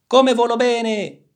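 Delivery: high, loud, drawn-out cry of joy; delighted exclamation. A narrator's reading. Turtle showing off new wings, exclaiming loudly. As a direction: exclaim it slowly at full pitch. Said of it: "esclamò".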